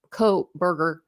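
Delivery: "co-burger" said as koh-burger, no L sound; Kohlberger without the L. Shown as a demonstration. Streamer showing viewers how she says it, L dropped. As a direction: drop the L in "co-burger". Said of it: "if I say it like Kohlberger".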